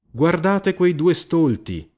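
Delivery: high, slow mocking yell; a rowdy tavern-goer jeering at father and son, high slow shout. A narrator's reading. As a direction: call out to mock the two fools. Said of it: "gridò uno di loro".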